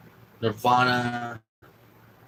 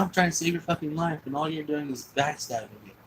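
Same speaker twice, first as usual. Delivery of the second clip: retold reproach, pitched much higher; hurt angry reproach; 5 semitones higher than usual. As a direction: accuse him of betrayal, heated. Friend's reproach in retold fight.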